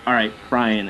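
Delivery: flat, falling, unimpressed echo; mock-weary acknowledgement; deadpan reply. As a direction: answer with dry resignation. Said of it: "And I'll be like".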